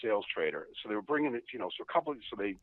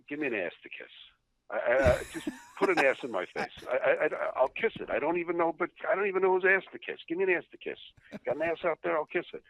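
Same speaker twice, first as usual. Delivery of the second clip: put-on pleading old-liner; 8 semitones higher than usual. Old-timer going around pleading.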